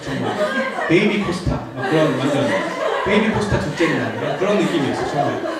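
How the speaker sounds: amused, laughing as he speaks; 웃음을 참지 못하며. Real, not acted. Still laughing at the memory. (베이비 코스타 같았다고 웃으며 말하는 목사)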